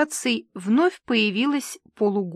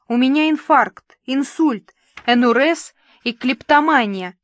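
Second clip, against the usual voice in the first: moaning; 3 semitones higher, 5 dB louder than usual. Acted. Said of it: "застонала Валя".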